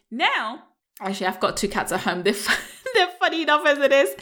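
chuckling through the words; amused, laughter creeping into speech; laughing. Real, not acted. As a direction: break into a real laugh mid-sentence. Amused thinking of her cats.

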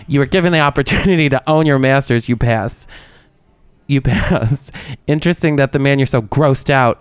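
lightly hammed-up open letter; mock-dramatic recital; dramatic reading. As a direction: read it with theatrical indignation, amused. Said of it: "I'm gonna do a dramatic reading".

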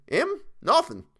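scornful high-pitched Cockney; Cockney servant, pitched right up; Cockney dialect. A narrator's reading. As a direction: dismiss him in a high Cockney voice. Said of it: "Thomas's Cockney dialect".

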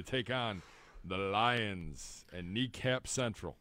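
slow, announcer-style matchup read; sports host intro. Acted. Host to co-hosts, introducing the next matchup, slow announcer read. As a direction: sell the next game like a broadcast tease.

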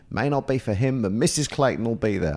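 put-on husband's phone call, wife chips in, in a botched Mrs Clayton's accent. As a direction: imitate Mrs Clayton's accent half-heartedly, then give up. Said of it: "I can't do the accent".

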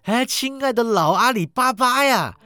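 high, loud, thrilled chatter; happy exclaiming. A narrator's reading. Scrooge greets his childhood storybook heroes, happy exclaiming. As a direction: gush with delight, voice jumping up high. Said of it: "史古基开心地喊道".

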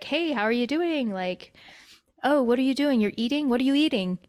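lightly acted casual check-in; casual phone chat. Imitating a phone chat with her uncle, casual. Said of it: "just like, dry, regular telephone conversations".

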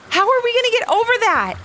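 high, loud worried little voice; a small cookie fretting at the river; gingerbread man voice. A narrator's reading.

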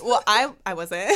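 slow, slurred drunk imitation; mock drunk stammer. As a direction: stumble over it like a tipsy friend. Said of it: "and you were like".

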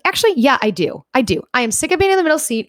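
mock-indignant airing of a long-held grievance; retold angry outburst. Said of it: "I don't know why you're so angry".

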